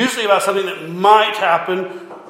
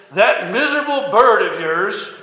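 lightly acted indignant complaint, rising at the end; mock angry neighbor; 2 semitones higher than usual. Neighbor complaining to a farmer about his rooster, mock angry. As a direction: put on a mildly disgruntled neighbor. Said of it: "mad as all get out".

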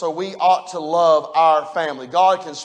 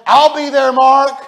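God's promise proclaimed; 7 semitones higher, 10 dB louder, slower than usual. Retold or imitated. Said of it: "here's what He said".

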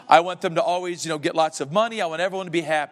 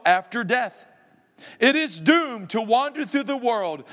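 a hint of a solemn ghost, slightly raised; lightly voiced ghost; 4 semitones higher than usual. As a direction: read the ghost's lament with mild gravity. Reads Marley's ghost speech.

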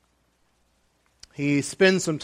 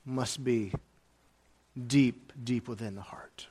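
hushed whisper; 4 semitones lower, 8 dB quieter than usual. Real, not acted. Pastor whispering to his congregation about heartfelt love. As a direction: drop to a breathy whisper, much softer.

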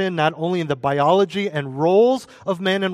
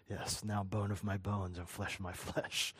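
much softer, lower, breathless with a laugh; mock rapturous Adam; 6 semitones lower, 17 dB quieter than usual. Preacher redoing Adam's words as giddy wonder, laughing. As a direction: sigh it out in awed delight. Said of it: "And here he is".

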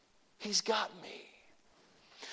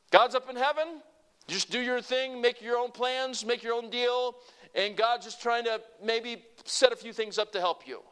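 mocking false view; 4 semitones higher, 3 dB louder than usual.

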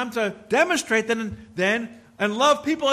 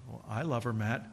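gentle whisper; 10 semitones lower, 7 dB quieter than usual. Retold or imitated. The Holy Spirit gently whispering to the preacher. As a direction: lower and much softer, a near whisper of the Spirit. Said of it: "the Holy Spirit whispered".

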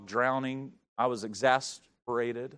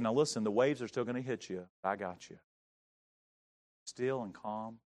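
calm; 6 semitones lower, 9 dB quieter than usual. Retold or imitated. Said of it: "just calm as he can be".

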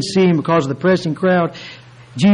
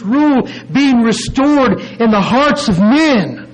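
higher, emphatic sermon delivery; emphatic preaching; 6 semitones higher than usual. Real, not acted. Preacher proclaims God's righteous rule to the congregation, emphatic preaching. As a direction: preach it with rising intensity.

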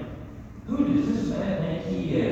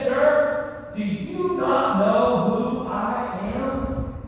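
indignant, higher demand; angry Herod; 6 semitones higher, much slower than usual. Retold or imitated. Herod angrily demanding Jesus know him. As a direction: sound offended and angry. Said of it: "Herod got angry".

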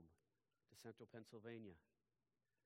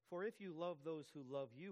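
reading scripture; 5 semitones higher, 5 dB louder than usual. Shown as a demonstration. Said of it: "Do not even the tax collectors".

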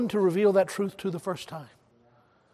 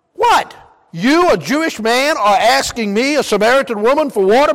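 incredulous woman; 4 dB louder than usual. Retold or imitated. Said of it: "You remember what she said?".

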